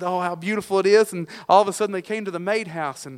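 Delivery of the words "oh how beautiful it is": mildly excited, slightly raised voice; lightly voiced delighted exclamation; excited retelling. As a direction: marvel a little, as the newcomer. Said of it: "she was so excited".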